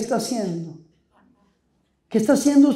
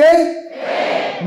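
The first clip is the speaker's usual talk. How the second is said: call for answer; 4 semitones higher than usual. Shown as a demonstration. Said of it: "¿No tienen qué?".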